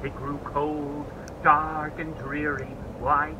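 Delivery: hushed narration. A narrator's reading. Narrator telling children winter came, fading to a hush. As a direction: let it grow quiet and dreary.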